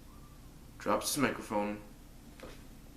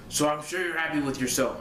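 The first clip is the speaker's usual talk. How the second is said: Vince McMahon voice; 4 semitones higher, faster than usual. Retold or imitated. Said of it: "Vince says".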